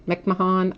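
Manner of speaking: McMahon said "mack-muh-HAHN", three syllables; alternative pronunciation. Shown as a demonstration. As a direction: sound the h in McMahon. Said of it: "I always say it wrong".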